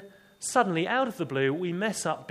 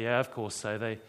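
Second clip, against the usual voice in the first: lower, sheepish chuckling reply; chuckling disciples; 3 semitones lower than usual. Retold or imitated. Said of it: "they all begin to chuckle and say".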